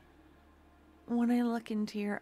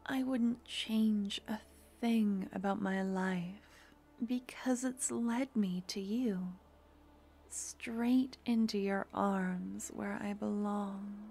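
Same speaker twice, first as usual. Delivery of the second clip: intimate roleplay voice. Acted. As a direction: murmur it close to the mic like a devoted partner. Romantic audio roleplay throughout.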